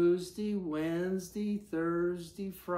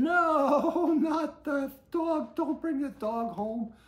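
father's line; 9 semitones higher, 5 dB louder, slower than usual. A narrator's reading. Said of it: "said the father".

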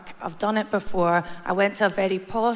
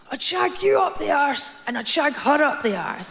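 put-on higher, rowdy drunk heckle; drunk catcall; 6 semitones higher than usual. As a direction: yell it like a drunk man in the street. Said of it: "he shouted at us".

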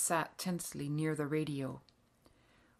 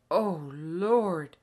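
louder, mildly alarmed outcry; dismayed exclamation; 6 dB louder than usual. A narrator's reading. Father learns Germans are coming, exclaiming in dismay. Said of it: "exclaimed Father".

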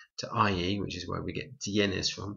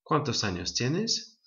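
1 slow model question; 4 semitones higher than usual. Shown as a demonstration. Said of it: "really useful phrase to know".

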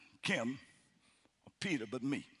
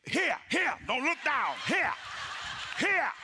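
nervous inner voice; 5 semitones higher, slower than usual. Retold or imitated. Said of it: "And I'm thinking".

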